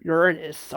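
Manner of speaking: Uranus squeezed to YUR-nis, stress up front; alternative pronunciation. Shown as a demonstration. Trying out another name for the planet, Uranus said YUR-nis. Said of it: "It's not called Uranus. It's called".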